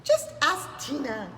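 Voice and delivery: high squawked what; a startled bird; surprised bird. Acted.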